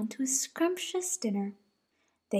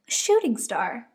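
excited little bunny; 2 semitones higher, 7 dB louder than usual. Acted. Posy sees shooting star.

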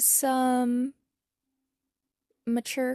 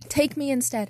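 blurted; 4 dB louder than usual. Acted. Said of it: "Harry blurted".

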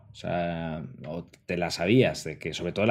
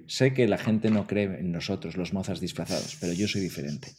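con man's pitch; 3 dB quieter than usual. Retold or imitated. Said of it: "usó esa misma información para decirme".

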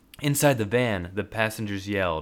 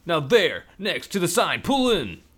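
high, louder commands; urgent directions; 9 semitones higher, 5 dB louder than usual. Acted. Navigator directing the driver into the garage. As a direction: point the way fast.

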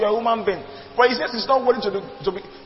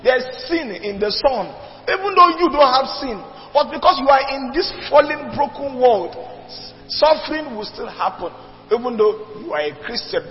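preaching at full force; 3 semitones higher than usual. Real, not acted. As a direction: drive the point home to the congregation.

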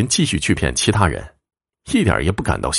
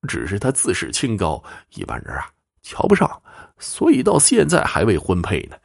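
lightly voiced old woman, softer after boasting; confiding old mother; 3 dB quieter than usual. Old mother explaining why her daughter is unmarried, softly confiding. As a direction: drop softer to explain, then lift.

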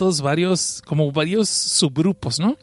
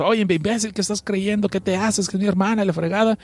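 scolding; 3 semitones higher than usual. Retold or imitated. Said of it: "Churaba todavía dice".

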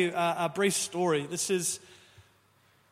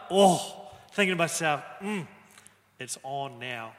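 knowing aside; 4 semitones lower, 4 dB louder than usual. Retold or imitated. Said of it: "I remember going like".

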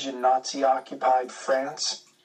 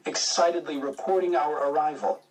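ordinary delivery

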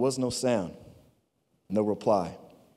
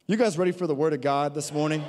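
shout. Real, not acted. Pastor calls out to congregation.

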